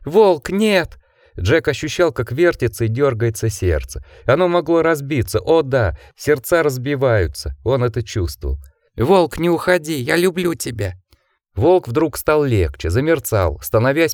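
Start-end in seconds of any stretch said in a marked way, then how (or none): 0.1-1.0 high desperate shout; anguished cry. A narrator's reading. Jack cries out as wolf fades. 9.0-10.9 1 high pleading. A narrator's reading. Jack begs wolf not to go.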